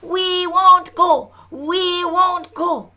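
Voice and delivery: loud, slow defiant chant; defiant shouting back. Acted. Villagers answering the mob, loud defiant chant. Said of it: "we were shouting back".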